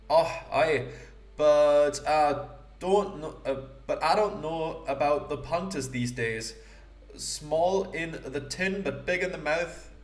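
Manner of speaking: put-on a self-admittedly poor Scottish accent, lightly done; mock Scottish accent. Gamer voicing the jewel thief Lefty in mock Scottish. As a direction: ham up a rough Scottish rogue, not too hard. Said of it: "approximation of a parody of a Scottish accent".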